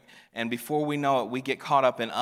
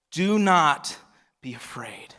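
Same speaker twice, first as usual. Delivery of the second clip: hushed reassurance; 2 semitones higher, 4 dB louder, slower than usual. Acted. Jesus calming frightened disciples.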